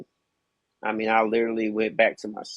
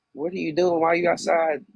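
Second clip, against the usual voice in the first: higher-pitched, imitated startled questioning; alarmed grandmother; 7 semitones higher, 3 dB louder than usual. Grandmother startled by child at door.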